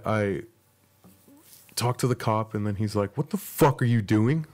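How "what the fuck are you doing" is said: mock yell of an angry cop; retold yell, moderately raised; imitated yelling. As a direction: raise pitch, push it like a yelling officer. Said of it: "Like, yelling at me".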